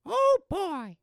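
high, loud cartoon exclamation; cartoon impression. Host answers in the cartoon bit, high and loud. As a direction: yelp it way up high.

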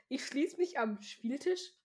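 confused rising question over a misread line; baffled reader querying the text; puzzled question. Real, not acted. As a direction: wonder aloud what the line means. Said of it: "Dann ich so".

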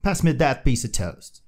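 British politeness. Retold or imitated. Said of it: "the British would go".

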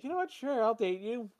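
high mock voice. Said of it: "Tori's like".

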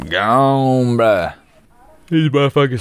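excited outburst. Real, not acted. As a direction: burst out amazed. Amazed the edibles are gone.

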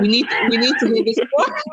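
words breaking into real laughter; laughing. Real, not acted. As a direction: crack up while demanding the story. Co-host cracks up at stripper fight.

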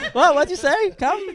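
high, loud mock confusion; pretending not to hear. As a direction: play dumb, like you can't hear.

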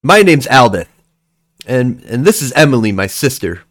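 put-on boy warning a stranger to back off; tough kid voice. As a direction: puff up like a little tough guy. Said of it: "he looks over at you and he goes".

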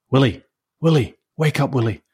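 urgent mum calling up the stairs. Acted. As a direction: call his name to wake him. Mum wakes sleeping son.

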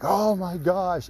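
high, slow awed gasp of the words; retold amazement. Jose stunned by the bullet cards, imitated awe. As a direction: mimic him being stunned, drawn out and high.

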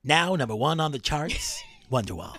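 mock radio DJ announcing number one; lightly voiced countdown host; Casey Kasem countdown. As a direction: hype the chart topper like a DJ. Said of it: "That was a decent Casey Kasem".

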